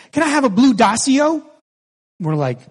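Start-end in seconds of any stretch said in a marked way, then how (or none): 0.1-1.4 put-on higher-pitched small child asking for a treat; lightly voiced kid's eager request; imitated little boy. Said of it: "And he goes".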